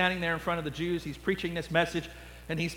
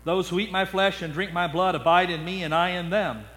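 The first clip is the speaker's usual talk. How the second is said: solemn scripture voice. Acted. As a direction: let the last words sink to a hush. Jesus quote.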